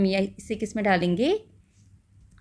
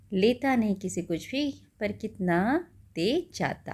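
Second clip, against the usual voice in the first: slow, measured poem reading; poem recitation; slower than usual. Acted. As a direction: read each line slowly for the class. Reads poem to class. (धीमी कविता पाठ)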